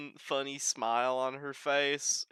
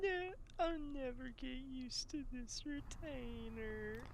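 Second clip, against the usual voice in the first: lisping retainer voice; 11 semitones higher, 11 dB quieter than usual. Pretend. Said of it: "he says it in more like a regular".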